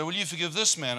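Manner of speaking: a hint of a divine voice asking; lightly voiced questioning from above; voice of God. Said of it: "I got this voice say".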